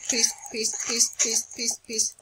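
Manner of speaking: whispered chant, word after word; hushed, repeated mock plea. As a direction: whisper it repeatedly to call off a fight. Begging game mobs not to fight.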